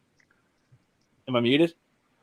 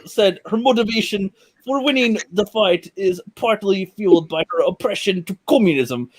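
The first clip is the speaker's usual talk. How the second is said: halting article read in a mock Russian accent; attempted Russian accent; 4 semitones higher than usual. Shown as a demonstration. Reading the fighter article aloud, attempted Russian accent. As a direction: push through the text in a bad Russian accent. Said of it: "get the Russian accent here".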